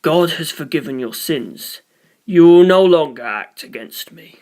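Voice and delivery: intone, then command; solemn command. Acted. Priest ordering Narancia after forgiving him.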